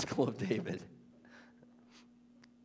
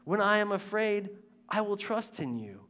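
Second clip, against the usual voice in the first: confessing; 7 semitones higher than usual. Retold or imitated. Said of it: "confesses in the middle of it".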